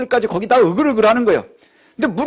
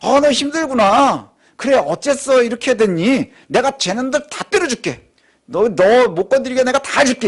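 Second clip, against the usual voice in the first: mock coddling comfort; 4 semitones higher than usual. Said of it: "이 얘기를 하시는 게 아니고요".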